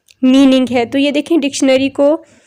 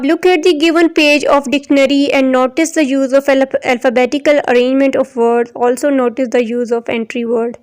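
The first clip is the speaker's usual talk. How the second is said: slow, careful textbook reading; reading aloud; much slower than usual. Acted. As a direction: read the instruction out deliberately. Reads textbook instruction aloud.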